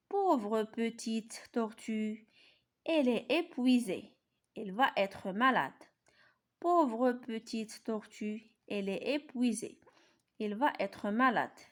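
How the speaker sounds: slow, carefully articulated reading for pupils; slow read-aloud. Shown as a demonstration. Teacher reading the coloured passage to pupils, slow and clear. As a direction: read it out slowly, syllable by syllable. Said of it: "إذا غنقراو".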